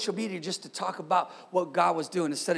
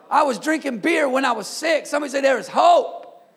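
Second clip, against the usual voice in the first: raised, high testimony building to a shout; fervent preaching; 5 semitones higher, 4 dB louder than usual. Real, not acted. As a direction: preach it out, stretching "There is hope". Preacher's testimony builds to rallying cry.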